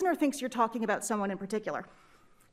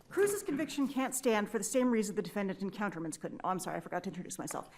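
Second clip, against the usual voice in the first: talking fast; 2 semitones lower than usual. Real, not acted. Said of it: "you're talking really fast".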